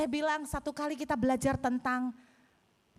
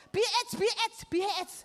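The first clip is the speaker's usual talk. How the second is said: high, excited mock chant; pupils chiming in; 7 semitones higher than usual. Other pupils join in with rude answers, excited chiming in. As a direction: imitate rowdy pupils calling out. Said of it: "Langsung yang lain nyaut".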